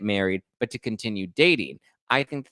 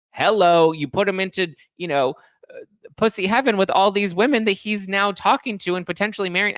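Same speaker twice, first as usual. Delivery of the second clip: higher, louder exasperated ranting; incredulous rant; 8 semitones higher, 4 dB louder than usual. Real, not acted. Host rants that Trevor obviously cheats, higher and louder. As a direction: hammer the obvious.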